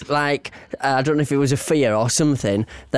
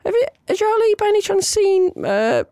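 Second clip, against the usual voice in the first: very high-pitched mock mum voice; friend's mum. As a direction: imitate a mum tentatively asking on the phone. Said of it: "his mum rings me mum and goes".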